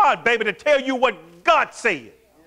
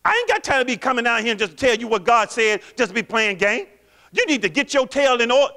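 talking bad; 2 semitones higher than usual. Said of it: "he talked like".

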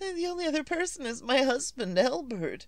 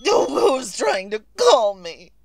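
loud, cracking cry of alarm; panicked woman shouting at the phone; frightened shout; 4 semitones lower, 7 dB louder than usual. Acted. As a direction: yell it out in fear. Panic at silent calls.

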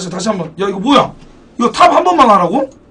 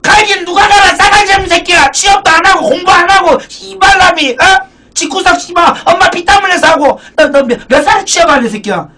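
nagging mother yelling much higher; angry mom; 6 semitones higher than usual. Acted. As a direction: scold your lazy son like a furious mom. Acted mother scolding jobless son.

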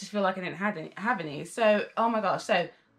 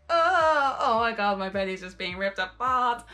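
pained outcry; 5 dB louder than usual. Retold or imitated. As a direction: yelp it as if your belly is being ripped apart. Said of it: "Some of them I was like".

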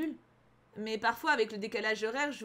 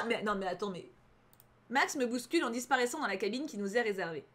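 usual speaking voice

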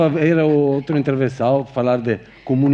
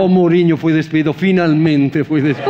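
gleeful; 4 semitones higher, 6 dB louder, slower than usual. Real, not acted. Gleeful about Mourinho firing.

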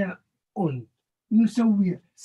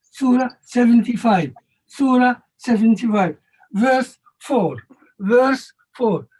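loud, repeated announcement to the class; calling out the reference; 5 dB louder, slower than usual. Real, not acted. Teacher repeating the verse number loudly to students, raised voice. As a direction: project it so the back row hears.

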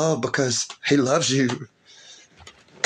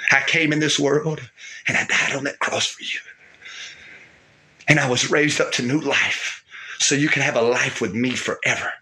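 Jesus speaking; 4 semitones lower than usual. Acted. Voices Jesus at length.

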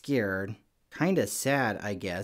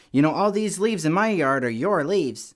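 high, loud, slow grumpy yell across the street; retold yell; 7 semitones higher, 7 dB louder than usual. Grouchy neighbor yelling across the street at the rakers, loud and slow. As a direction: bellow it like a cranky old neighbor. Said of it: "he yelled at us across the street".

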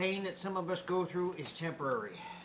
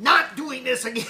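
loud laughing declaration; 6 semitones higher, 11 dB louder than usual. Real, not acted. Joking loudly after the challenge.

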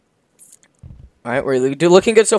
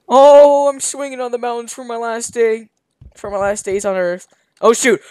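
put-on very old man; 8 semitones higher, 8 dB louder than usual. Old man swinging, voiced.

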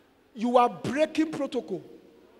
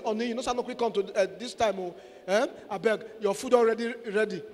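sweet pleading wife; 3 semitones lower, 4 dB quieter than usual. Pretend. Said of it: "beg your husband, say".

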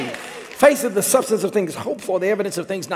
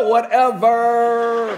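dismissive; 5 semitones higher, 7 dB louder, much slower than usual. Acted. Sarah dismisses God.

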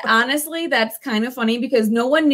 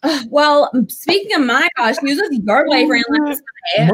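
put-on Valley Girl accent. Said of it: "Valley Girl accent".

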